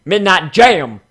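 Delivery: delighted name reveal; proclaiming the name. Real, not acted. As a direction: savor the name like a title. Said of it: "Now that's a better name".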